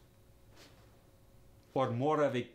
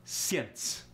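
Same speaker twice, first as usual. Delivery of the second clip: "Since" with a y-glide, Russian "syence"; thicker Russian accent. Shown as a demonstration. The speaker showing accent thickness, thicker Russian accent. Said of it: "It depends on the thickness".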